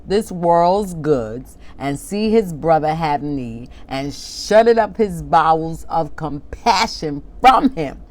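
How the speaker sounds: slow, measured King James reading, words drawn out; solemn scripture reading. Acted. Preacher reads the King James verse to the congregation, slow and solemn. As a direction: read the verse like holy writ, unhurried.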